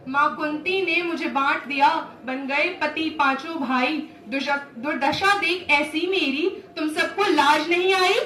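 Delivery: mounting indignation toward the final question; indignant Draupadi. Acted. Draupadi shames her five husbands for her plight, indignant. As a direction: shame them, voice building at the end.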